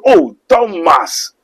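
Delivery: a patient teacher chiding his disciple; Jesus answering. Retold or imitated. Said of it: "No, so".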